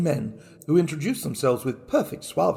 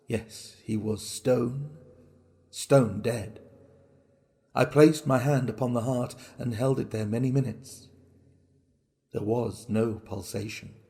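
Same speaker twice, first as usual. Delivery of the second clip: hushed dread; 4 semitones lower, 5 dB quieter than usual. A narrator's reading. Narrator confirms old man dead.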